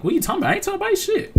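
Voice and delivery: high-pitched protesting squeak; mock indignant denial. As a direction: act innocent, pitch shooting way up. Acting out his denial when accused.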